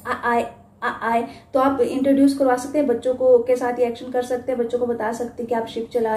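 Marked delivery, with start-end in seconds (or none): 0.1-1.3 soft sailor's aye aye; quiet aye aye reply. Shown as a demonstration. Teacher repeating the sailor's aye aye. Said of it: "जोलीफोनिक में भी उन्होंने यही लिया है".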